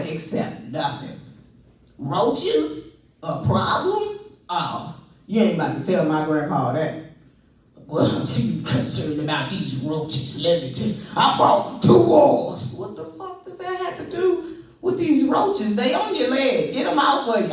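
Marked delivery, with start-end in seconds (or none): 2.0-6.9 grandpa scoffing. Retold or imitated. Grandpa offended by roach talk. 7.9-11.0 grandpa voice. Retold or imitated. Grandpa answers about roaches. 11.1-12.8 put-on high, loud and slow old man boast; proud shout. Grandpa boasting to his grandson about his wars, slow loud shout. 12.8-17.5 high, frantic alarm; panicked. Retold or imitated. Grandson panicking at grandpa about roaches on his leg, high frantic.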